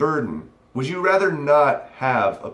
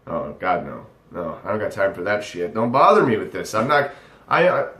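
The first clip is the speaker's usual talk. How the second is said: mock can't be bothered. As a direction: imitate someone waving off a nuisance. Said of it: "cannot be bothered to express their disgust".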